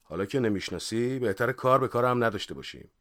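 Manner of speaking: a touch of hurt annoyance; mildly offended. Acted. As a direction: say it as if slightly miffed. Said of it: "با دلخوری گفت". (با کمی دلخوری)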